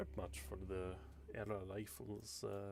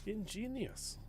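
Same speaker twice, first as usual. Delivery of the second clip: mock impressed; 13 semitones higher, slower than usual. Colonel voice.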